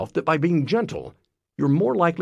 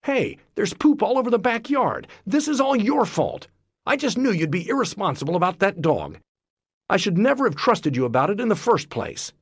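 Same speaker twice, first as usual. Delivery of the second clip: higher, accusing harsh blame; mock heated accusation; blaming attack; 4 semitones higher than usual. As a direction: attack the partner's character. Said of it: "What's not okay is to say something like".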